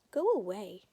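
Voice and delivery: shouted refusal. Acted. Angry brother tells father off.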